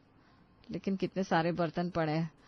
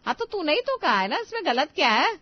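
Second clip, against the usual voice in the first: sharp scolding; 8 semitones higher, 4 dB louder than usual. Acted. Mother-in-law scolds daughter-in-law.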